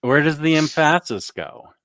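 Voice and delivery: "emphasis" said as em-FASS-is, middle syllable stressed; playful misplaced emphasis. Pretend. Host joking about where emphasis goes, wrong middle stress on "emphasis". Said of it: "where I should be hitting the emphasis".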